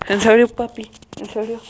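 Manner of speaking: put-on a kid insisting he behaved; pleading kid. Son swears to his dad he didn't fight, pleading.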